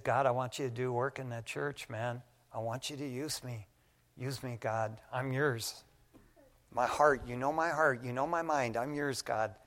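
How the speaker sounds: soft, low, intimate plea; hushed, earnest offering of yourself; surrendering prayer. Retold or imitated. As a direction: pray it quietly and humbly to God. Re-enacts his surrendering prayer to God.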